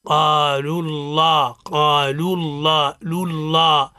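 teacher drilling the heavy lam in قالوا الله. Shown as a demonstration. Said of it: "تقرأ هكذا".

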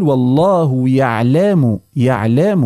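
يعلم with the vowel stretched into a half long vowel; wrong pronunciation. Shown as a demonstration. Teacher imitates the caller's mistake in يعلم, stretched vowel. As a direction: drag the vowel in يعلم as the error. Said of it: "ولا نقول".

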